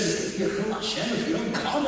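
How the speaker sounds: wife mimicking the principal, fast and mildly mocking; laughing mimicry of the chilul Hashem line; mocking repeat. Wife mimicking the principal to her husband, mildly mocking. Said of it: "she makes it feel like".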